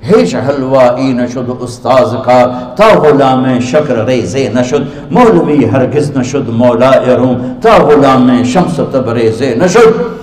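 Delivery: slow, measured Persian verse recital; slow reverent recital of Persian verse; poetry recitation. Shown as a demonstration. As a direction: recite the couplets slowly, like poetry. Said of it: "मेरे शायर का कहना है".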